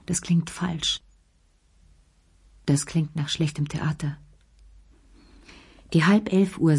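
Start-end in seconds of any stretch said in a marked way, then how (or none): 0.1-4.2 soft whispered judgement; muttered self-critique. Acted. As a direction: say it quietly to yourself. Self-critique after a weak voice.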